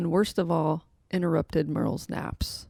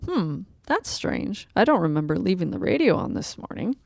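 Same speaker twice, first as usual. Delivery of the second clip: puzzled woman. Acted. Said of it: "talking to herself".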